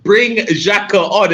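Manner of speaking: high, drawn-out mock scream; imitation of screaming at the match; retold scream. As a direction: plead it high and stretched, imitating a fan's scream. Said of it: "I was screaming".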